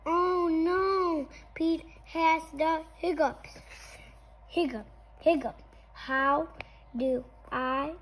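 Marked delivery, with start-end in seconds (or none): 0.1-3.5 dismayed. Acted. Character alarmed by hiccups. 4.5-5.6 hiccup sounds. Acted. Imitated hiccup sounds in story.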